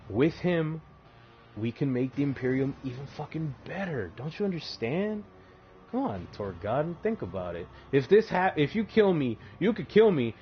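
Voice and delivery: high, whiny wheedling voice; pleading schemer. Retold or imitated. Erebus pleading with Torgodon to spare him, high wheedling whine.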